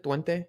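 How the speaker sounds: Twente said the Spanish way as "Twen-tay", questioning rise; Spanish accent. Shown as a demonstration. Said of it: "I'm saying it in a Spanish accent".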